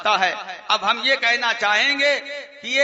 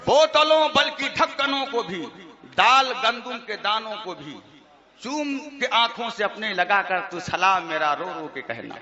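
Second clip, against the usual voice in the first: tuneful verse recital, lightly mocking; reciting a rival's verses to make fun of them; mock poem recitation. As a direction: chant the couplets with a half-hidden smile. Recites mocked salaam verses.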